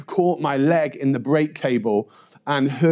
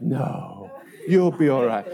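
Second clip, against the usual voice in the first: dismissive lady; 4 semitones lower than usual. Retold or imitated. Woman calming injured paperboy, dismissive. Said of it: "my dismissive lady".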